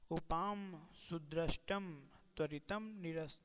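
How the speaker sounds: slow, measured chanting of a shloka; recited like a scholar quoting scripture; Sanskrit verse recitation. Acted. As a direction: intone each word of the verse carefully.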